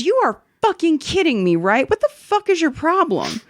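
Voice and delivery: mock the customer's disbelieving rage; imitated outrage. Angry customer voiced in story.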